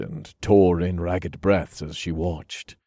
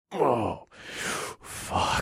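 breathy whisper; 4 semitones higher, 7 dB quieter than usual. A narrator's reading. Narrator groans in pleasure.

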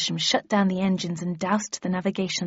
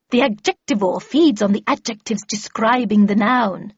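louder, lightly voiced lecturing lady; emphatic expert voice, raised a little; Miss Havisham; 6 dB louder than usual. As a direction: explain it with brisk authority. Miss Havisham explaining in character.

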